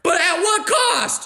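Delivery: high and drawn out, x0.5 slow; slow dramatic question. Real, not acted. Asking mom what her gossip cost, slow and dramatic. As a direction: stretch every word for effect.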